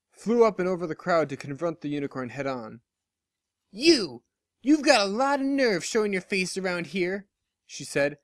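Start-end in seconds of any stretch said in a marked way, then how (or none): 3.7-7.3 angry pegasus. Acted. Dash confronting the unicorn spy in the square, angrily. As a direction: throw it at her like a challenge.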